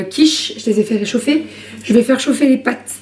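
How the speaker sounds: talking through hiccups. Real, not acted. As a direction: hold back the hiccups mid-sentence. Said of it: "Pardon, j'ai le hoquet". (parole hachée par le hoquet)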